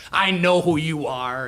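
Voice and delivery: slow, drawn-out dismissal; lightly voiced exasperated Speaker, slowed down; imitated weary brush-off. The Speaker brushing off the member and walking on, slow dismissal. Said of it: "He goes".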